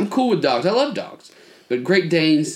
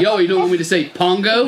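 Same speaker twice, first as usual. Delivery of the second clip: mock dad getting louder, higher pitch; louder teasing dad; 5 semitones higher, 4 dB louder than usual. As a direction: raise your voice like a dad goading his kid. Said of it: "And he gets louder".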